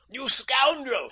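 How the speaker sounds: high, loud, drawn-out scream; screamed outrage. A narrator's reading. Livid king turning on the impostor, screaming. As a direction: scream the accusation, stretching it out. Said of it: "he screamed".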